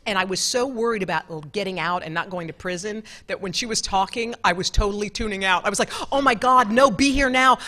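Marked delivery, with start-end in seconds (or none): 6.1-7.6 panicked self-talk. Retold or imitated. Panicked inner voice in interview.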